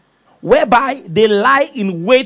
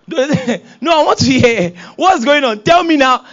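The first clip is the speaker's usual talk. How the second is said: put-on higher, louder nagging child; insistent child; 4 semitones higher, 4 dB louder, slower than usual. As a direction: beg to be let in on the gist.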